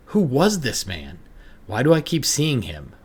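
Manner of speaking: high, loud, frantic; rising panic, close to tears; panicked questions. Acted. Terror in the mirror.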